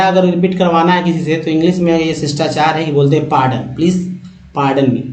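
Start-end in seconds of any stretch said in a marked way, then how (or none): 3.3-5.0 पार्डन, प्लीज पार्डन मी said as a clear model for students; polite English phrase. Shown as a demonstration. Teacher shows students how to ask politely, clear model. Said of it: "पार्डन मी ऐसे बोलते हैं".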